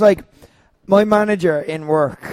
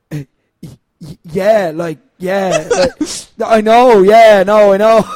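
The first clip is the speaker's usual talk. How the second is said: 1 flustered laughing; 6 dB louder, slower than usual. Retold or imitated. Flustered reply to manager.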